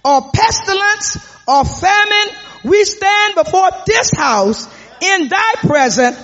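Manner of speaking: slow, drawn-out pulpit reading; preacher voice; preaching. Acted. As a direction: intone the scripture to the congregation.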